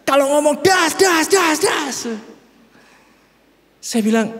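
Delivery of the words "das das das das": higher, punchy das das das bursts; mock ngegas. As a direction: fire off das das das like his wife. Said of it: "dia kalau lagi happy justru dia ngegas".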